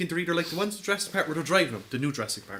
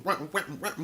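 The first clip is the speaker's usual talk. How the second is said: mock Pac-Man-like chomping; chomping hippo noise; 3 dB quieter than usual. Imitating the approaching hippo for friends, chomping noise. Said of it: "sounds like Pac-Man".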